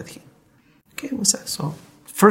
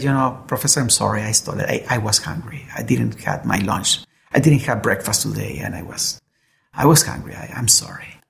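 lower, hushed, hesitant, trailing into a whisper; ashamed confession; 6 semitones lower than usual. Acted. Little John confessing to the professor, low and ashamed. Hungry boy confesses theft.

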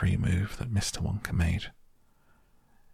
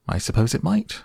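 breezy, higher-pitched lilt; cheerful; 7 semitones higher, 3 dB louder, faster than usual. A narrator's reading. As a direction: concede it lightly, with unbothered good cheer. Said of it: "cheerful as ever".

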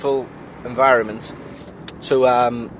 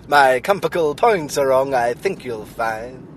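put-on Welsh accent; slower than usual. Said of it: "It's meant to be compass points".

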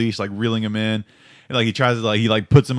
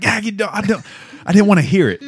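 high-pitched mock protest breaking into laughter; flustered, laughing squawk; acted exasperated outburst; 9 semitones higher than usual. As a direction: blurt it out high, as if recoiling from the words. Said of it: "I'm like".

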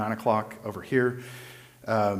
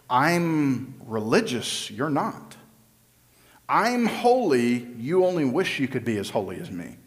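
smug self-righteous. Retold or imitated. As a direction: lord it over them. Mocking self-righteous Pharisee.

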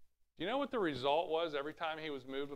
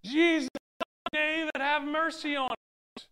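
louder shout; 12 semitones higher, 9 dB louder than usual. Acted. Blind men shouting louder over the crowd, desperate yell.

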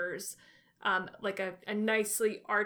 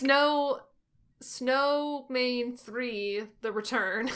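movie trailer voice; 3 semitones higher, 3 dB louder, much slower than usual. Pretend. Mock movie sequel title.

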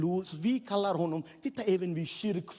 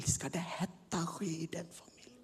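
hushed gossip; gossiping whisper; 6 dB quieter than usual. Acted. Passers-by gossiping about the blind man, whispering. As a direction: whisper it behind his back.

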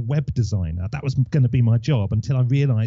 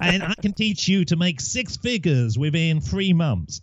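put-on slow, salesy American accent; imitating an American online guru; lightly put-on American accent; mock American accent; 4 semitones higher than usual. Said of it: "I don't know why I got an American accent".

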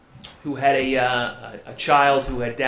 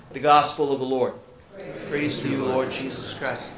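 Gospel proclamation; 2 semitones higher than usual. Acted. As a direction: proclaim it like a priest at Mass.

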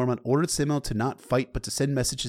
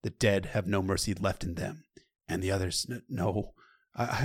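ordinary delivery

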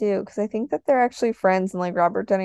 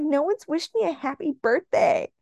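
higher-pitched imitation of a wronged child; mock indignant complaint; 6 semitones higher than usual. Imitating childhood friend upset on the phone, mock indignant. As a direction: complain in a raised, put-on voice.

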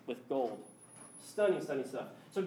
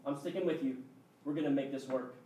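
reassuring God; 5 semitones lower than usual. Retold or imitated. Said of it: "And he goes".

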